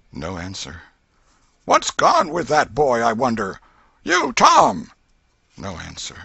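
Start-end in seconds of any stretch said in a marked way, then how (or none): 1.6-4.9 loud, rising to a high yell on Tom; old aunt losing patience, calling; exasperated aunt calling. A narrator's reading. Aunt hunting for hidden boy.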